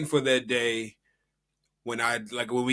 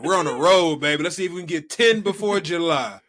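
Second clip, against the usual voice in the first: excited; 4 semitones higher, 5 dB louder than usual. Real, not acted. Excited hype about a streak.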